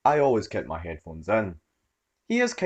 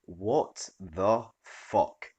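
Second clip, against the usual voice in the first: very slow stunned disbelief; a slow, stunned what-the; 3 dB quieter, much slower than usual. Real, not acted. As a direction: drag it out, stunned. Stranger yanks out her earphone.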